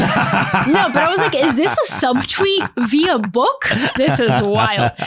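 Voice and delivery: laughing through a mock reaction; amused disbelief, half laughing. Wife retelling his book, laughing.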